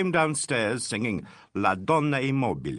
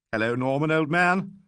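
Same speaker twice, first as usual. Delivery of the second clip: brave gaiety; 6 semitones higher, 3 dB louder than usual. A narrator's reading. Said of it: "with a sort of brave gaiety".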